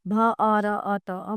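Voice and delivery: भ, अ, र, अ, त, अ as separate letter sounds; sound-by-sound breakdown. Shown as a demonstration. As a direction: split भारत into its sounds भ, अ, र, अ, त, अ, one at a time. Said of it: "वर्णों को अलग अलग किया जाता है".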